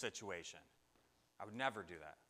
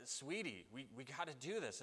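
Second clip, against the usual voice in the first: softly imitating a tearful parent; hushed, halting plea to a child; mildly upset parent, kept quiet; retold tearful parent; 7 dB quieter than usual. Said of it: "And you're crying too".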